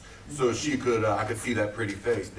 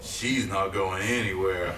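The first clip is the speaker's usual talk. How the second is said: sinister aside; 5 semitones lower than usual. Acted. Villain aside after slashing tires.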